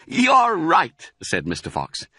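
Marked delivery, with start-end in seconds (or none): 0.1-1.1 high, loud approval; pleased exclamation. Acted. Fox confirms his cub's guess, pleased. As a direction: praise the clever guess.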